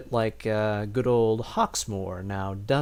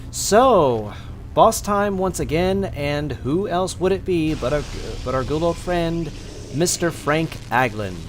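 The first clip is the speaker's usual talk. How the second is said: hyped boss intro; 4 semitones higher, 4 dB louder than usual. Real, not acted. Announcing the boss fight.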